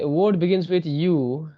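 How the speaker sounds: "Word begins with U" read very slowly; slow rule reading. Shown as a demonstration. Teacher reading the third rule slowly to the class. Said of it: "third क्या है?".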